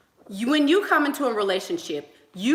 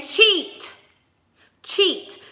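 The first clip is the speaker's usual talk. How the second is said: urging cheat; 11 semitones higher, 6 dB louder than usual. Retold or imitated. Mom urging son to cheat.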